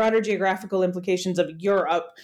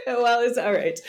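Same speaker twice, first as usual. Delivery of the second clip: laughing; 3 semitones higher than usual. Real, not acted. Laughing after sounding sarcastic.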